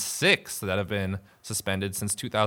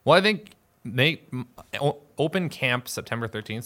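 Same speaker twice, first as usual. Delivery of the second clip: marbles in mouth; 3 semitones higher than usual. Real, not acted. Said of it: "I got marbles in my mouth there".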